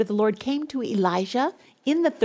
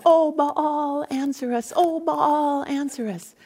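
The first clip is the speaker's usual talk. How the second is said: higher, calling plea on each "Oh, Baal"; pleading cry; 5 semitones higher, slower than usual. Acted. Prophets of Baal crying out, higher pleading call. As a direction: cry out to a silent god.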